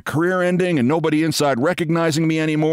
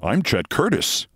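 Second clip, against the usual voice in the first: defensive; 3 semitones lower than usual. Retold or imitated. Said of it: "I said rather defensively".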